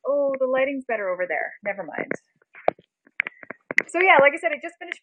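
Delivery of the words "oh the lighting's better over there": ordinary talk, nothing marked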